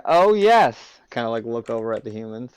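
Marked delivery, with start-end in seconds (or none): 0.0-1.0 loud, raised-pitch show of agreement; obnoxiously loud. Acted. Talking over rowdy humans, obnoxiously loud. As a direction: say it loudly for others to overhear. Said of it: "talk loudly".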